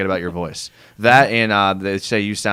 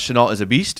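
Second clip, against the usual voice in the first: ordinary talk, nothing marked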